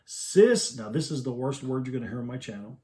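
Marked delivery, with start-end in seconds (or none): 0.0-0.8 put-on high squeaky toddler squeal, louder; little boy's squeal. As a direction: squeal it like an angry little boy. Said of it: "Brandon's little high-pitched voice squeal".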